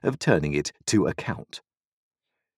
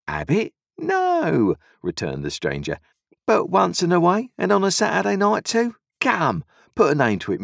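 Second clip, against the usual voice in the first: high, loud ingratiating voice; sly stranger offering drinks; 12 semitones higher, 4 dB louder than usual. A narrator's reading. The stranger offers Joe rum, smooth and pushy. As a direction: coax him into a drink.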